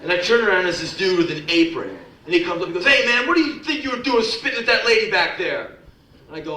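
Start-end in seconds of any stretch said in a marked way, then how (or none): 2.8-5.7 pitched-up indignant challenge; acted irate demand, voice raised in pitch; angry confrontation. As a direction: call him out, acting outraged. Man in apron confronts him.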